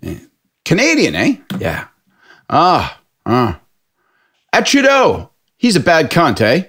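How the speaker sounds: high mocking bloke voice, a touch of local accent; lightly voiced drunk taunting the Canadian; pub guy taunting. Drunk pub guy taunts the Canadian about Trudeau, lightly mocking.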